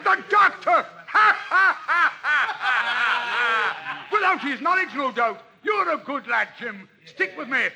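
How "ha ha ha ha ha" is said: loud triumphant pirate laugh; hearty laugh. Acted. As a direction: laugh it out big. Silver gleeful over the map.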